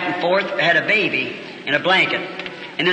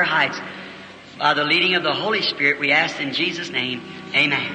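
closing prayer. Acted.

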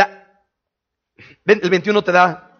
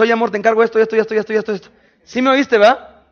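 mock wife. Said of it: "Y le dice".

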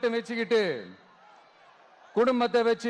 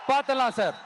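shouted challenge. Shown as a demonstration. Leader to the chief minister, the dare shouted back to the rally. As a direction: throw the dare out to the whole crowd. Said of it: "பாத்துடலாம் sir repeated as challenge".

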